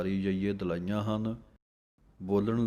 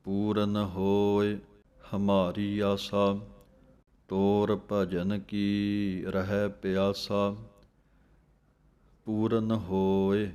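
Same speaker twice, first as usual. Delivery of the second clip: slow recitation; much slower than usual. Acted. Recites gurbani verse slowly.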